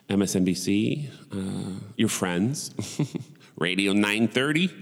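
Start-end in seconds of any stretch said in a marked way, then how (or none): 3.6-4.7 lightly put-on Buffalo accent; a touch of Buffalo on the station name. Shown as a demonstration. Asking where listeners get news, light Buffalo accent. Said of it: "that's my best Buffalo accent".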